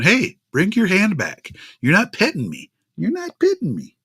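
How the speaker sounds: high, petulant cat voice demanding pets; voicing the cat. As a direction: whine it as the ignored kitty. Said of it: "kitty cat ... going".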